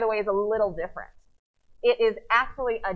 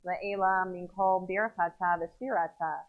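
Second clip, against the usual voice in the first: slow, low recitation of the Kaddish; evenly paced, solemn prayer reading; liturgical prayer; 3 semitones lower, slower than usual. Real, not acted. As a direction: lead the congregation in measured Hebrew prayer.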